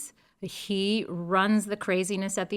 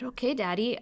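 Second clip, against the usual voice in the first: whispered; 3 semitones higher, 5 dB quieter than usual. Retold or imitated. Retold reply to father.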